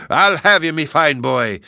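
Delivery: high, loud menacing giant shout; giant crying out. Acted. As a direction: roar it at the boy as you charge. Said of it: "cries he".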